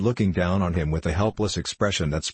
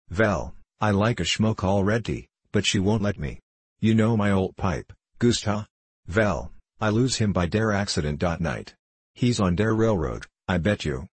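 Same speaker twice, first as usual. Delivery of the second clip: put-on thick German accent, conversational; wistful request in German-English; old German patient. Old man asking about his pipe, German accent.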